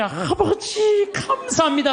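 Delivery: high, very slow, drawn-out cry of 아버지 through laughter; imitated fervent prayer. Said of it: "통성 기도를 하는 거야".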